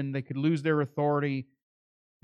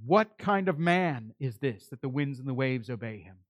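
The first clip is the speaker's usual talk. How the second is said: lowered voice of wonder; awed; 4 semitones lower, 3 dB quieter than usual. Retold or imitated. Disciples after the storm is quieted, in subdued awe. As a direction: ask it low, in restrained awe. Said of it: "They were in awe".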